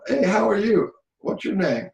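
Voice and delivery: high, lively puppet voice; sock puppet voice. Shown as a demonstration. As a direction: play a sock puppet greeting a friend. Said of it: "you cast your voice".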